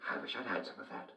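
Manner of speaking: breathy whisper, a bit quick; the king quietly wishing he had taken the pill. Acted. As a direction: whisper it wistfully to yourself. King wistful about joy pill.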